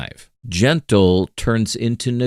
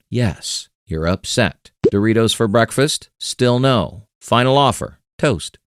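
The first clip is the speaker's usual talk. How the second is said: calm and firm. Acted. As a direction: kindly hold the line without budging. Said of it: "calmly hold the line".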